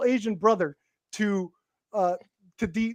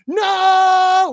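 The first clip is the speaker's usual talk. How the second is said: a hammed-up high, loud "No!" as he watches it fall; the bad guy wails as the wheelchair tumbles down the stairs; mock anguished yell; 7 semitones higher, 6 dB louder than usual. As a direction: cry out "No!" like a cheesy movie villain. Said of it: "the bad guy's just like".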